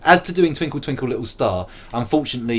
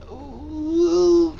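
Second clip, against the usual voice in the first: high ooh. Real, not acted.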